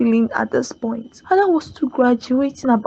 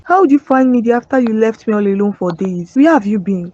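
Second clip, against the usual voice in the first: a touch louder, accusing her partner; reproachful raised voice; confronting Richard with a raised voice; 3 dB louder than usual. Acted. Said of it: "please don't raise your voice on me".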